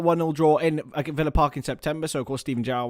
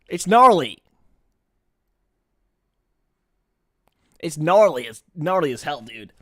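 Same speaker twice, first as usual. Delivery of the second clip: mock surfer dude; 6 dB louder than usual. Streamer mocking a chatter as a lightly voiced surfer dude. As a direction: play a laid-back California dude.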